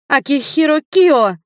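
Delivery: high, loud shout of his name; shouting his full name. Acted. Li shouts at Hiro to stop him leaving, loud and high. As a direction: call him out sharply and loud. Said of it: "закричала я".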